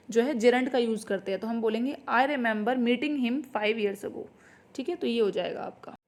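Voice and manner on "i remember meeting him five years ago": each word laid out slowly for students; slow dictation read. Shown as a demonstration. Teacher to students, reading the corrected sentence slowly.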